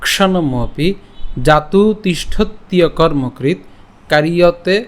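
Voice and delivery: slow, measured shloka recitation; Sanskrit verse recitation. Shown as a demonstration. Teacher reciting today's Gita verse to the class, slow Sanskrit recitation. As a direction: recite each Sanskrit phrase deliberately, with short pauses. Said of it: "আজকে শ্লোকটি হলো".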